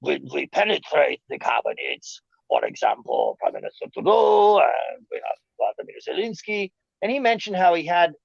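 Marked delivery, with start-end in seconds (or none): 0.0-6.7 lightly voiced smug Schwab, rising to a shout on Trudeau; a hint of a boastful globalist explaining his plan; Klaus Schwab impression. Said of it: "he's like".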